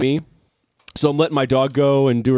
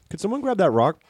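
mock-casual request during a struggle; lightly imitated unbothered man; Tim; 4 semitones higher, 3 dB quieter than usual. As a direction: ask mildly, as if nothing is wrong. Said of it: "struggling for his life, and then just".

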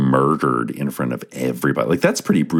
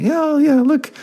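high, airy, half-listening voice; distracted dismissive; 4 dB louder than usual. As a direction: brush it off like you're busy elsewhere. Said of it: "I'll just like".

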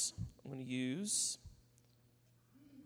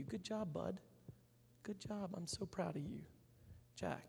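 soft, hushed praise to one listener; quiet aside; 8 dB quieter than usual. Real, not acted. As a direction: murmur it just for him.

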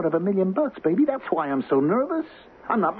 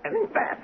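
a breathless unvoiced cry of pain; 4 dB quieter than usual. Millie is being hit and gasps in pain. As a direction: let it escape as a hurt, airless gasp. Ralph beating his wife.

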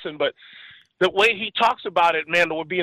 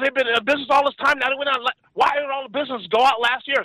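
higher, fast, baffled questions; mock disbelief, pitched up; baffled retelling; 5 semitones higher, faster than usual. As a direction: mimic a confused friend. Friend retold, baffled.

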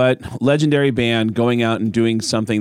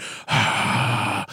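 crowd groan; 3 dB quieter than usual. Retold or imitated. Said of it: "Everyone went".

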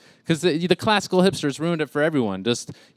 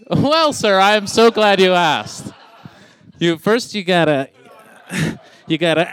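higher, louder pompous gentleman; mock gentleman; 4 semitones higher, 6 dB louder than usual. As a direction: announce it like a proud butler.

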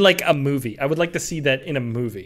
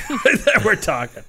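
slow, laughing repeat; 7 semitones higher, 5 dB louder, slower than usual. Real, not acted. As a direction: laugh through the words.

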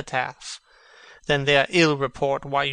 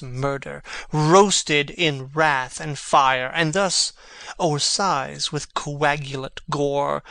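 dramatic recitation. Acted. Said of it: "well spoken, and with good accent".

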